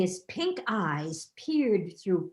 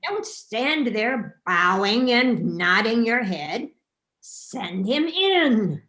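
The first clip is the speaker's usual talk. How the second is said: loud, slow impatient shout; shouting king; 5 dB louder, slower than usual. Acted. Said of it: "shouted Claude".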